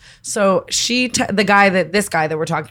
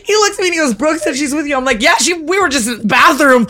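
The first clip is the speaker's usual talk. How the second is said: laughing; 6 semitones higher than usual. Real, not acted. Retelling through laughter.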